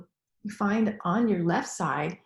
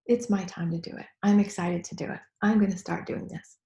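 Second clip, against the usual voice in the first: tapping round. Shown as a demonstration. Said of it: "now we're gonna tap in the desire".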